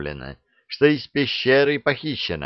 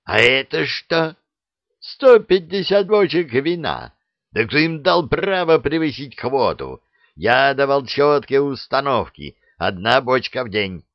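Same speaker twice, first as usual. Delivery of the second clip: raised, furious disbelief; indignant outburst; 4 semitones higher than usual. Acted. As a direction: rage at the overspending. Koschei outraged at wine quota. (гневно, на повышенных тонах)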